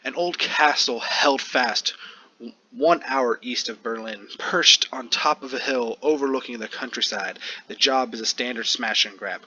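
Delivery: game master narration. A narrator's reading. GM scene setting.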